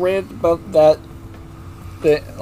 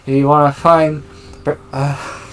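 out of breath; 2 semitones lower than usual. Real, not acted. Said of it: "I'm running out of breath".

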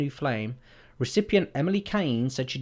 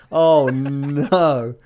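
prank reveal laughing; 9 dB louder than usual. Real, not acted. Reacting to prank escalation.

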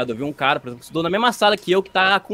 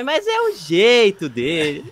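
higher, very drawn-out excuse; lightly mimicked grandmother; 4 semitones higher, 3 dB louder, much slower than usual. Grandmother insisting on her excuse, slow mimicked insistence. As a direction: stretch it out like an indulgent granny. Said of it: "uma coisa que o velho sempre fala".

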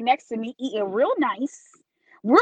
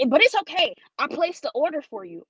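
higher mimicked server voice; imitated bottle girl; 3 semitones higher than usual. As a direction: put on the server reassuring a customer. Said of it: "she said".

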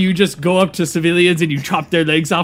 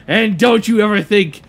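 dramatic exit; 2 semitones higher, 4 dB louder than usual. Acted.

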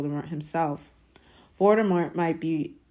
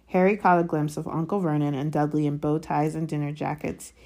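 plain reading voice

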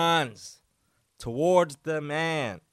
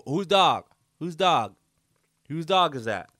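angry demand; 4 dB louder than usual. Retold or imitated. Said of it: "He's going".

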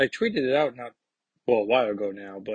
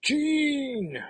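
Scott. Acted. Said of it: "Scott's like".

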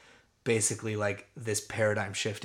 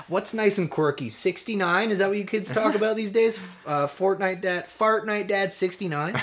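put-on much higher, loud clueless old dad; out-of-touch dad; 9 semitones higher, 4 dB louder than usual. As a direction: puzzle over slang like a confused dad.

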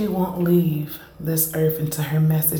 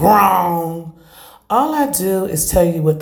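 emphatic; 6 dB louder than usual. Real, not acted. Rebuts imagined listener.

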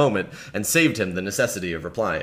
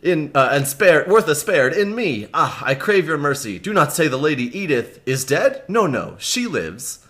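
lightly voiced knight, a touch of grief; grieving Miles; 4 semitones higher than usual. Reader voicing Miles Hendon hearing of his father, mild grief. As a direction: read Miles as a man hearing bad news.

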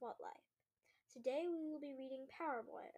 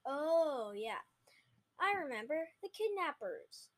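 alarmed; 3 semitones higher, 10 dB louder than usual. Acted. Boy realizes and panics.

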